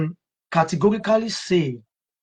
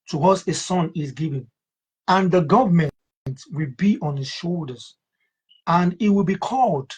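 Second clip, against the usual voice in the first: measured, solemn Bible reading; scripture reading. Acted. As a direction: read the verse with reverence. Reads scripture aloud.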